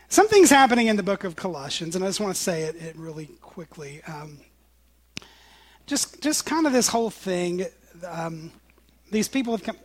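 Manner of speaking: talking around a cough drop; cough drop in mouth. Real, not acted. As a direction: speak with a lozenge in the mouth. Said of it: "I've got a cough drop in my mouth".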